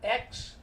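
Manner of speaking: X said as eks with a short e; short sound. Shown as a demonstration. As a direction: sound out X as its own syllable. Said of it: "that's a short sound".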